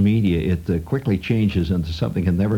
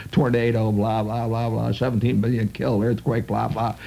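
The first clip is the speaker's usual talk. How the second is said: imitating background news drone. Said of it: "reduced to the status of background music".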